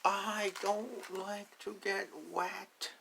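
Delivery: very high, slow duckling whine; high drawn-out duckling complaint; whiny duckling. Acted. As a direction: whine it out like a tiny duck. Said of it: "says the duck".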